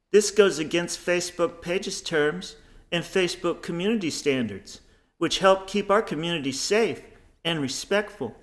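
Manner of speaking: prim, lightly squeaky scolding read; squeaky liberal voice. Acted. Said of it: "squeaky little pussified liberals".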